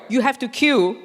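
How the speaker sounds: firm, falling command; stern voice. Retold or imitated. Repeating the order to the man, firm and stern. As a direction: say it flatly, like a rule. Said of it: "So I put on my stern voice".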